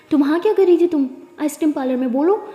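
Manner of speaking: father grilling Pari about the ice cream parlour; angry interrogation. Acted. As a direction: press her hard for an answer. Father angrily interrogates daughter.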